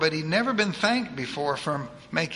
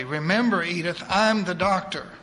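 firm; 4 dB louder than usual. Acted. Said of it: "Will interrupted firmly".

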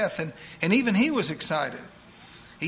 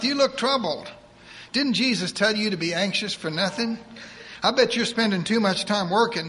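put-on higher, fast voice of a bossy old churchwoman; eager church lady; 4 semitones higher than usual. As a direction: rattle it off like a pushy saint. Edith lectures Will.

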